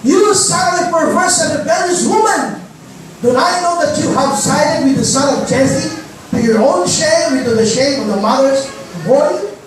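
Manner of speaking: slow, mildly heated reading of a furious king; angry king Saul. Acted. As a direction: read Saul's rebuke with restrained anger. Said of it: "Saul's anger flared up at Jonathan". (galit na hari, mabagal at may diin)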